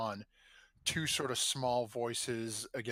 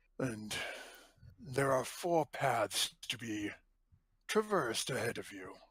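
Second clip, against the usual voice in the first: deep, booming, billowing voice. Voicing an unseen presence speaking into the players' minds: deep booming voice. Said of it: "a deep voice billows through".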